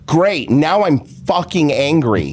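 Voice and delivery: slow, emphatic mock fuming; imitated angry friend. Imitating friend stewing behind the driver, slow mock anger. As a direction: stretch the curses in imitated anger. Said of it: "he goes".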